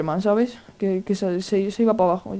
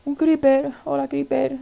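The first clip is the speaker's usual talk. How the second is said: higher, drawn-out mock-friendly hello; singsong greeting; 6 semitones higher, slower than usual. Gamer greeting a creeper, playful singsong. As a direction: sing out a playful hello to the monster.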